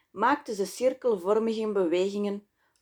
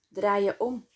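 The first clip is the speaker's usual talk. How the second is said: steady, unhurried instruction, no raised voice; calm command. A narrator's reading. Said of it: "gebood ze rustig". (rustig bevel)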